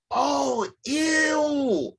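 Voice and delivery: high, squealed "ew" of disgust; imitating a disgusted cashier. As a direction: recoil in mock disgust.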